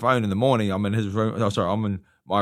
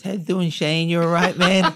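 high, louder boxer's greeting; Mike Tyson impression; 9 semitones higher, 7 dB louder than usual. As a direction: greet him in the champ's high voice. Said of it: "you have got his voice down well".

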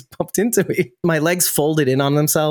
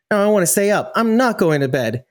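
put-on defiant little kid; 5 semitones higher than usual. Retells own childhood bedtime refusal.

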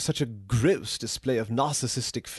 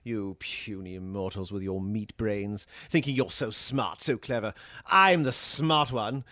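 villainous gloating; 5 semitones lower than usual. Acted. AI gloating over humans.

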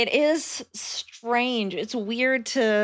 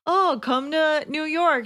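higher, slow gushing fan voice; fan's plea; 7 semitones higher, slower than usual. Retold or imitated. Mimicking a fan begging her to come, in a higher, slow, gushing voice. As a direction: plead sweetly like a fan. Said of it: "people always are like".

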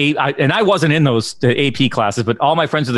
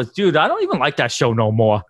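lightly put-on Boston accent; a touch of Boston on "no more"; Boston vernacular. Shown as a demonstration. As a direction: drop into Boston townie talk. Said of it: "No More is my favorite thing".

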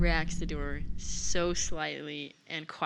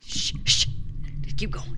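hushing whisper. Acted. Hushing the party while sneaking.

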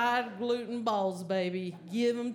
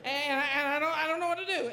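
higher, fast, stammering rush of words; panicked; 4 semitones higher than usual. Retold or imitated. Stalled driver panicking at the drive-thru speaker: higher, rushed babble.

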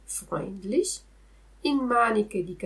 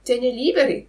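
cat echoing; 4 semitones higher, 6 dB louder, faster than usual. Acted. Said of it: "ripeté il gatto".

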